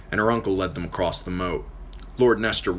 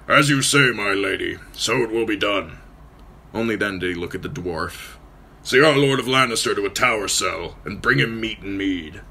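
gruff lord; 2 semitones higher than usual. Acted. Nestor answering Lady Stark, gruff and formal.

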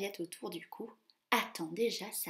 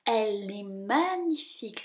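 delighted; 5 dB louder than usual. Acted. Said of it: "s'extasie Gus".

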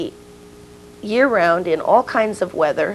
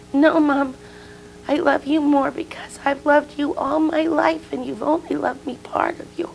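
put-on little girl calling; 8 semitones higher than usual. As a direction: pipe up as a child insisting to Mom. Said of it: "She yells from the porch".

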